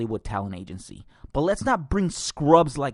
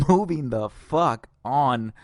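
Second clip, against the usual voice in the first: laughing; slower than usual. Real, not acted. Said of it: "laughing paired take".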